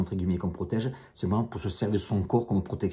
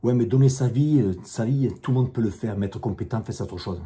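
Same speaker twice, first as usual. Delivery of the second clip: mock commenter; 2 semitones higher, 5 dB louder than usual. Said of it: "il y en a un autre aussi qui me dit".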